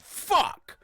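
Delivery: loud, high cry of fright; startled yell. Retold or imitated. Dreamer as the entity flies at him, acted startled yell. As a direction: yelp it as if something flies at you.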